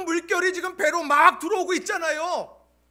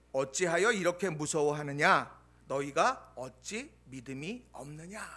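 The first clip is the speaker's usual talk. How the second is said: solemn rebuke; 11 semitones lower, 6 dB quieter than usual. Acted. Pastor reading Jesus's rebuke to the disciples, soft and grave. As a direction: let the words sink in quietly.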